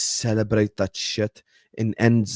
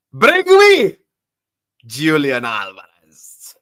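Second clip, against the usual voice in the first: mock Simeone demand; 7 dB louder, much slower than usual. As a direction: bark the demand like a boss.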